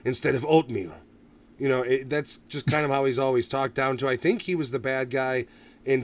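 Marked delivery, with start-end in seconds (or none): 0.0-0.9 gravel-voiced impression. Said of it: "that's actually his real accent".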